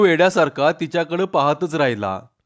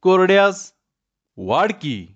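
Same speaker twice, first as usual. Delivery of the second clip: lightly voiced young wife; 4 semitones higher than usual. A narrator's reading. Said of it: "आणि म्हणाली".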